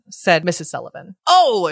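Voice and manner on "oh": high, loud excited cry; shriek. A narrator's reading. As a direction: shriek with delight. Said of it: "shrieked the imp".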